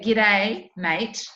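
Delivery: lightly Australian "G'day, mate"; "G'day, mate" in an Australian accent; Aussie greeting. Shown as a demonstration. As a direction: demonstrate the casual Aussie greeting. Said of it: "So we don't say".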